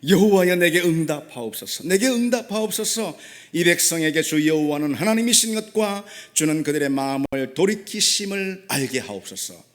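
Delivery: imitated prophet's plea, projected and sustained; crying out in prayer. Preacher voicing Elijah's prayer to God, crying out. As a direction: call out to God, as if quoting the prayer. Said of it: "아주 간결하게 부르짖냐면은".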